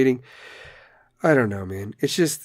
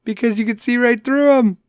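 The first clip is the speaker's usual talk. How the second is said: amused punchline repeat; 8 semitones higher than usual. Shown as a demonstration.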